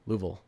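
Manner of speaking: Louisville squashed into two syllables, LOO-vul; Kentucky pronunciation. Shown as a demonstration. Streamer showing how Kentuckians say it, Kentucky pronunciation. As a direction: drop the middle of Louisville, "Loovul". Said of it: "everyone from Kentucky calls it Louisville".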